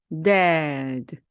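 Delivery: dead stretched very slowly; slow demo. Shown as a demonstration. Teacher slowly showing dead to the class. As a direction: draw dead out slowly, sound by sound. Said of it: "dead 이렇게 되는데".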